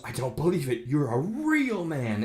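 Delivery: lightly voiced astonished woman; amazed woman. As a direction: draw out real man in awe. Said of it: "She goes".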